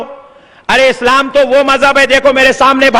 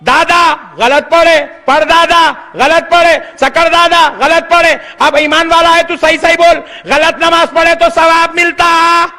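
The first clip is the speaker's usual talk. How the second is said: preaching interrogation; 4 semitones higher than usual. Acted. Preacher cornering a young man over his forefathers' prayers, rhetorical challenge. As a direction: hammer each forebear home like a charge.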